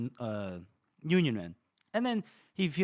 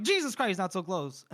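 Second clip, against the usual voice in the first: startled; 3 semitones higher than usual. Retold or imitated. Startled by arrow beside him.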